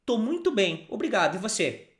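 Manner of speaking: Tô muito bem, obrigado said clearly, tô a touch high; model phrase. Shown as a demonstration. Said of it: "repeat after me".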